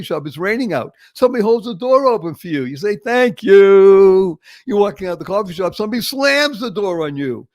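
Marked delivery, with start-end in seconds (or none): 3.0-4.4 loud, drawn-out thank you; really mean it for the kind stranger; grateful thank you. Pretend. Door held open in rain.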